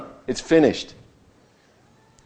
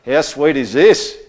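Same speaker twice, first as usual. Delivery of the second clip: mildly excited; 4 dB louder, slower than usual. Retold or imitated. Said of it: "He's getting excited about it".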